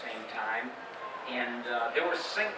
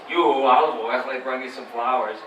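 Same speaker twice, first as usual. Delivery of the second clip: low half of Popeye; 12 dB louder than usual. Shown as a demonstration. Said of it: "you stuck 'em together".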